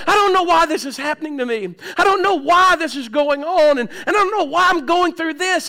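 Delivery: high-pitched retold venting; imitating an upset, bewildered child to a parent; angry confusion. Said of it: "in anger and in confusion".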